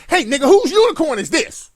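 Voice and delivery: lightly voiced tweaking crackhead; hint of a crackhead ranting about unicorns; mock crackhead. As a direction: play a jittery crackhead seeing things. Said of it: "A crackhead sees a whole bunch of shit".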